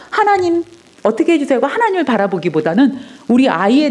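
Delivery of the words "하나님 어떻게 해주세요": higher, plaintive cry to God; anxious pleading prayer. Retold or imitated. Mother retelling her frantic prayer for her daughter, pleading high. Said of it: "기도하다가도".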